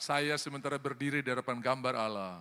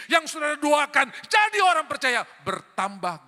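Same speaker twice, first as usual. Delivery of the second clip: high, very loud rousing sermon; full-force preaching; 8 semitones higher, 10 dB louder than usual. Real, not acted. Preacher telling the childless they can multiply believers, full-force preaching. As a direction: proclaim it at full power, pitched high.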